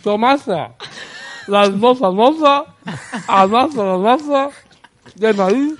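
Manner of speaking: reading through a mouthful of orange; mouth full. Real, not acted. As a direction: mouth full, words mushy around the fruit. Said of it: "leyendo la frase con la boca llena de naranjas".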